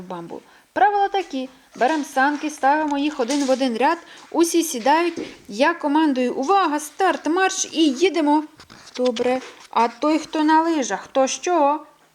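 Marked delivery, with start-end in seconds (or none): 0.7-8.4 much higher and louder, bursting with the idea; a mole announcing his genius idea to everyone; excited idea. A narrator's reading. Explaining rules, loud. 9.0-11.9 curious question. A narrator's reading. Skier asks question.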